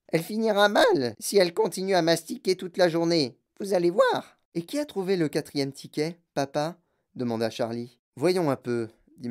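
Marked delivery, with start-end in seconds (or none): 0.1-4.4 grumbling grandmother. Acted. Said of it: "dit grand-maman Georgina".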